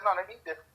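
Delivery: "they eat different" with no h on heat; imitating mom's pronunciation. Mom repeating herself to her son, imitated "they eat different" without the h. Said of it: "exactly how she said it".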